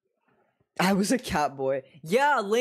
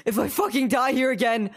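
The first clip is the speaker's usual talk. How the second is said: higher, raised-voice exasperation; escalating frustration; 5 semitones higher, 3 dB louder than usual. Real, not acted. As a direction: burst out with exasperated emphasis. Same threat escalated after quiet take.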